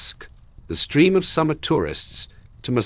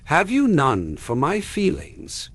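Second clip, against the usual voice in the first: wounded; 9 semitones higher than usual. A narrator's reading. Aggrieved mother reproaches.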